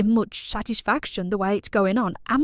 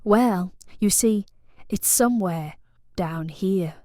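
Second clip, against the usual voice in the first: put-on posh accent; 3 semitones lower than usual. Client showing plumber the problem, coy posh accent. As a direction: draw it out suggestively in a posh accent. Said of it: "I thought it was quite posh".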